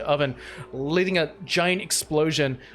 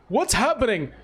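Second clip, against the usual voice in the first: acted distress; 5 semitones higher than usual. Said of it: "he's like".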